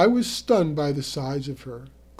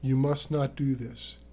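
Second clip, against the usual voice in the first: soft even voice; 3 dB quieter than usual. Acted. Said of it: "In that soft, even voice of his".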